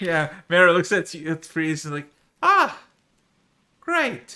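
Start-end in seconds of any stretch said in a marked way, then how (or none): 2.4-4.4 very high with an edge of bitterness. Game narrator voicing Mary's reaction to Freeze, with a hint of bitterness. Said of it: "There's a hint of bitterness in her fucking voice".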